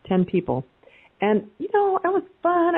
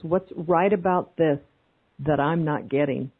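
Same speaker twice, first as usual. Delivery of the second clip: slow question; 2 semitones lower, slower than usual. Shown as a demonstration. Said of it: "a really good question to ask is".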